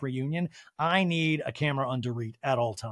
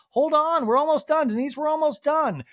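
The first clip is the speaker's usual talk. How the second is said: high, louder call to wait; Andy pleading; 12 semitones higher, 6 dB louder than usual. Retold or imitated. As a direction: beg her to stay on the call. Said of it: "And Andy's like".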